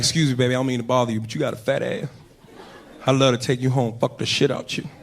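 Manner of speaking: casual, plain American accent; low-key American pickup line. Shown as a demonstration. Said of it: "in an American accent".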